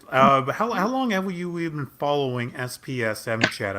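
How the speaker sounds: hesitant false start, then restart; stumbling over words. Real, not acted. Host asking the guest about following the chat, stumbling over words. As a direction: trip on the question's opening words. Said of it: "as I'm stuttering over my words".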